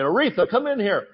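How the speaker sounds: calling wife in mock awe. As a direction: shout for his wife in mock excitement. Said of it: "he's mocking you the whole time".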